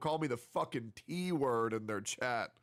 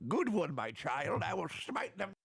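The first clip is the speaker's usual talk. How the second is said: mock evil overlord. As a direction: purr like a smug dark lord. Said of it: "I say".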